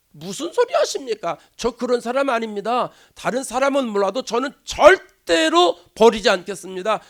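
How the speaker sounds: mock-indignant, emphatic vow; boastful protest. Peter vowing never to abandon his Lord, boastfully emphatic. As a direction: protest confidently, leaning hard on the key word. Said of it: "아주 호언장담했던 사람인데".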